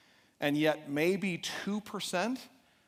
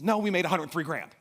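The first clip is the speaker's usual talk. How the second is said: louder, testy correction; retold irritated comeback; snappy; 2 semitones higher, 5 dB louder than usual. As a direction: snap the correction at your wife. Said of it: "I'm snapping at her".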